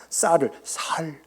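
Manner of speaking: "쌀을" said slowly as "살", with a plain s instead of the tense ss; 경상도식으로 "쌀"을 "살"로 천천히; Gyeongsang pronunciation. Shown as a demonstration. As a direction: say "쌀을 살" slowly, letting "쌀" soften into "살". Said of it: "이렇게 이야기하고 있고요".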